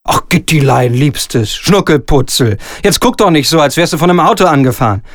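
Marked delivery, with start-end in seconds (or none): 0.1-2.6 lower, slower pet names; wheedling. Acted. Director sweet-talking his actress Gitti, wheedling. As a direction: coax her with sugary pet names.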